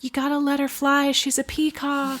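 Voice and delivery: high, hammed-up mock voice, egging her on; imitating Jacob. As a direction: play a cheeky Jacob teasing Edward. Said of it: "And then Jacob's like".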